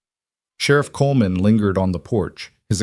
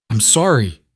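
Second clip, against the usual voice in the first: a touch of choking up; choked apology; 3 semitones higher than usual. Acted. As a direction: push it out through a tight throat. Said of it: "he choked out".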